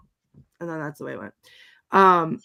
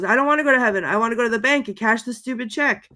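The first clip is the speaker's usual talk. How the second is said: slightly raised mock protest; imitated indignant astonishment; 3 semitones higher, faster than usual. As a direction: retell an astounded refusal, higher at first. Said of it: "astounded that he wants her".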